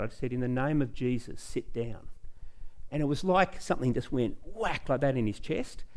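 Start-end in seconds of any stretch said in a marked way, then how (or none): 0.3-2.1 much softer, calm and firm; a softly spoken rebuke, not a shout; quiet command. Retold or imitated. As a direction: say it low-key, no yelling. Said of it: "and I quietly said, I didn't yell it out".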